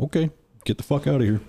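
high, fast line breaking into laughter; can't hold back a laugh while quoting the boss; retelling being thrown out, laughing; laughing through the quote. Real, not acted.

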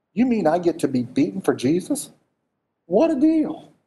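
incredulous question leaping into high-pitched glee; mock delight. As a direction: act thrilled at a great bargain. Voicing Paul delighted at suffering.

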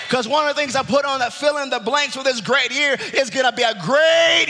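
stretched-out, rising preacher proclamation; emphatic preaching. Real, not acted. Preacher promising a great year of joy, emphatic preaching.

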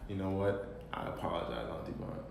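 mock apology. Teasing fake apology.

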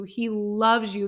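slow, drawn-out "loves"; stress on loves. Real, not acted. Assuring the listener of present love, stress on loves. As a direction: lean on "loves" to insist it is present tense. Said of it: "There's no past tense in that".

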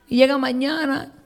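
ordinary delivery

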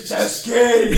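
mock gay cop. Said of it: "Be like".

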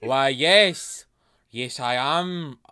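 put-on French accent. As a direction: attempt at a French accent, drawn out. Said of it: "Is that Scottish?".

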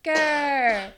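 silly growled grr with laughter; half-hearted cartoon growl; feeble mock roar. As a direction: imitate a pathetic pep-rally roar. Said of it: "the weakest roar I've ever seen".

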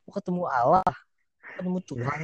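high, loud mock scolding; a hammed-up angry teacher scolding. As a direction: scold a kid for playing on the railing. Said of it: "terus gua dimarahin".

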